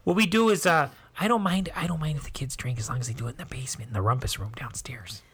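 hushed, confiding Midwestern mom; Midwest mom accent. Acted. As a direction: drop to a near whisper as a Midwest mom. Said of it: "my most favorite American accent".

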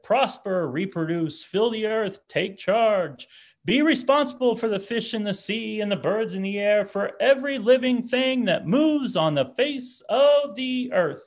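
booming, lifted voice of God proclaiming. Acted. Preacher reading Genesis to the congregation in a God voice. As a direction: speak as God commanding creation, high and grand. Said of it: "That is my God voice".

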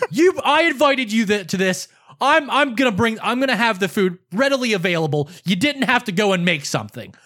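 imitated indignant scolding; mildly heated retelling of a rant; retold angry yell. Brother lecturing about his cookout, retold angry yell. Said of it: "you called to yell at me".

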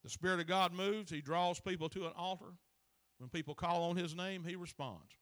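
forceful preaching. Acted. Preacher telling the congregation to submit to the book, forceful. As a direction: drive it home to the congregation.

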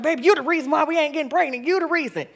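mock blaming. Retold blaming husband.

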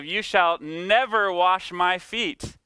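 slow and firm, pressing on "never"; a hint of Peter's defiant refusal, slowed; mild aggressive refusal. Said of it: "now aggressive".

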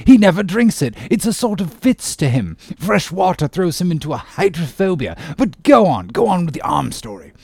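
mock him, then wave him on; bantering sea captain. Captain ribbing surgeon about water, jovial and high.

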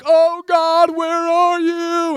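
loud, high, drawn-out cry to God; mock desperate wail. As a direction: wail it like a hammed-up lost believer. Mimics panicked believer shrinking back.

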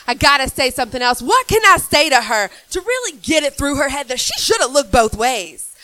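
loud, high mock exasperation; worked-up driver. Driver hunting for a comeback, mock-frantic.

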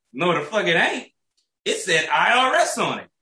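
high-pitched exasperated rant; retold indignant protest. Retold quarrel over missing money.

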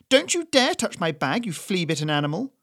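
high, loud, shrill threat; furious old woman. Acted. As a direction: snarl it to protect the bag. Doris guards her bag.

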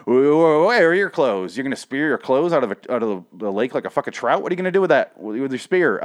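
half-joking indignant shouting at a comic character; exasperated rant. Retold or imitated. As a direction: yell at the character in disbelief. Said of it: "And I'm like".

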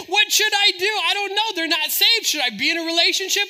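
high, loud worrying aloud; mock-frantic indecision; imitated anxious dithering. Believer agonizes over a relationship, high and fretful.

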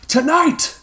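high, final declaration; the leader announcing to his men; with finality. A narrator's reading. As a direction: decree it with no room for doubt. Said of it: "stated with finality".

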